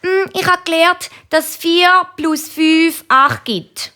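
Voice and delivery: hohes Mädchen, bedächtig aufsagend; Kinderstimme. A narrator's reading. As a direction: sag es hoch und gedehnt auf wie ein Schulkind. Kind Nina antwortet der Mami. (hochi Chinderstimm)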